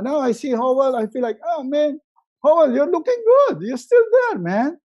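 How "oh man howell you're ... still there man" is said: excited greeting. Acted. Greeting a friend on Zoom.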